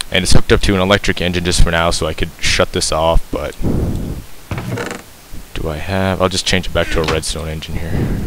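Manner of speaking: breathing hard into the mic; audible heavy breaths between words. Real, not acted. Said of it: "Sorry if I'm breathing really heavily here".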